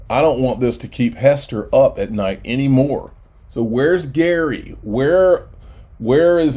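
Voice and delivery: mock concern, tongue in cheek; sarcastic. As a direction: feign worry, then ask where he is. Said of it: "I'm being sarcastic here".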